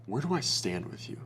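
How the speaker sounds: soft, pleading mock question; a quiet, insecure plea for reassurance; needy question. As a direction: ask it like a needy guy. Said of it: "It's such a needy question".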